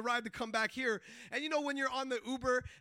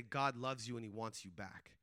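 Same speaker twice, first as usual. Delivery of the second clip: low, softer, intimate retold line; quiet, sincere; 11 semitones lower, 8 dB quieter than usual. Telling the guard eye to eye about God, quietly sincere. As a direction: deliver it low and steady, straight to him. Retelling one-liner said eye to eye.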